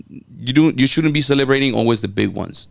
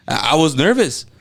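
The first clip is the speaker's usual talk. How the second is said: usual speaking voice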